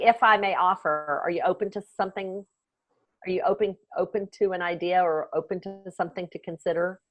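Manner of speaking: gentle permission ask. Shown as a demonstration. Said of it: "I just say".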